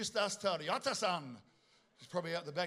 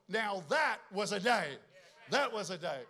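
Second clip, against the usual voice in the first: preaching climax; 4 dB louder than usual. Acted. Climax of sermon build.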